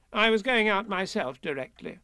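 high-pitched fussy rabbit; brisk Rabbit. Acted. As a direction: pipe up as a busy rabbit. Voices Rabbit.

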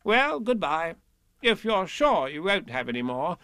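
high-pitched fussy rabbit; brisk Rabbit. Acted. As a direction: pipe up as a busy rabbit. Voices Rabbit.

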